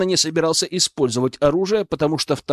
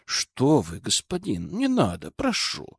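softer, pleading mock fright; fake fear; 3 semitones lower, 6 dB quieter than usual. Hero faking fear before the nobleman, softly pleading. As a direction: pretend to cower and beg. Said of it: "притвориться, что я испугался".

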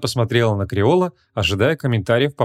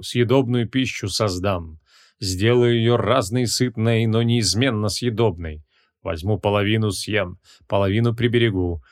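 slow, measured ceremonial recitation; solemn incantation. A narrator's reading. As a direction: intone a magic verse slowly and solemnly. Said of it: "а затем торжественно произнёс". (торжественно, нараспев, как заклинание)

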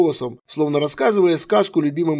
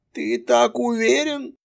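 gentle; 9 semitones higher, slower than usual. A narrator's reading. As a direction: ask gently. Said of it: "ласково сказал патриарх".

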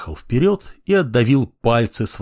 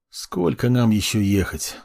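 drawling. Acted. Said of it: "протянул я".

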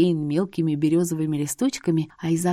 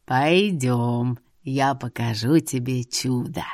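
put-on lower, slow sly old man; 6 semitones lower, slower than usual. A narrator's reading. Seer lures the girl to see a miracle, sly low voice. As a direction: tempt her with a secret. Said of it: "лукаво произнёс он".

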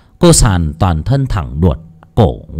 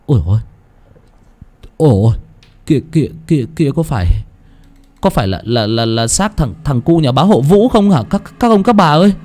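terrified villager crying out; 5 semitones higher than usual. Acted. Dân làng kinh hãi kêu lên.

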